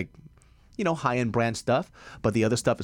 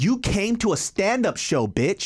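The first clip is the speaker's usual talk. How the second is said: retorting; 10 semitones higher, 3 dB louder, slower than usual. Retold or imitated. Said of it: "I was like".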